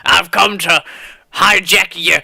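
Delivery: gruff "yarr" space pirate. Acted. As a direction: play a pirate hijacker. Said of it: "he says".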